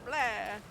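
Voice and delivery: cartoon vampire bleh. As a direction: toss off a Dracula bleh. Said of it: "I'm doing my vampire voice".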